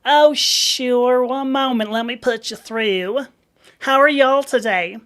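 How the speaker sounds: high, loud Southern receptionist; Georgia front-desk accent. Retold or imitated. Receptionist putting a caller through, high Southern accent. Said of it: "it's a Georgia accent".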